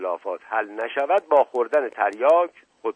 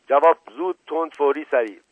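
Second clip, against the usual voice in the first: raised, insistent interrogation; urgent demand; 5 semitones higher, 5 dB louder than usual. Acted. Inspector interrogates the suspect about the butcher, urgent demand. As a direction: fire off each order for an answer.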